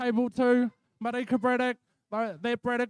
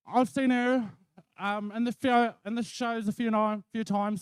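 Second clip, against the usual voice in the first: nervous shaky voice. Real, not acted. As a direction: voice a little unsteady from nerves. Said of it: "a bit shaky from my heat".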